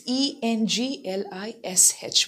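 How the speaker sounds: "E N G L I S H" letter by letter; each letter of "E N G L I S H" articulated separately; spelled out. Shown as a demonstration. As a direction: spell "E N G L I S H" distinctly for learners. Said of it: "try to articulate it properly".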